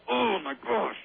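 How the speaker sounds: a sudden high excited cry; real joy bursting out; delighted. Real, not acted. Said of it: "it feels so good".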